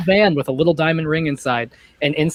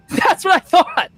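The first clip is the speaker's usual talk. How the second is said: high, gloating taunt with a laugh; villain taunts the party, gloating; mocking villain; 9 semitones higher than usual. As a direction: sneer it down at them.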